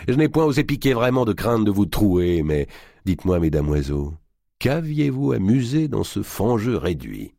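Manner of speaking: booming giant voice. Acted. Giant Robert d'Artois speaking.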